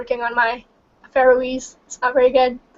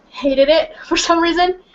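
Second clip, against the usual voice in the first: laughing; 5 semitones higher than usual. Real, not acted. Laughing while telling about friends.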